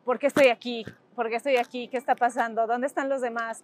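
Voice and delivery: half-acted distress, not real sobbing; remembered crying, lightly voiced; retold crying. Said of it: "y llorando, diciendo".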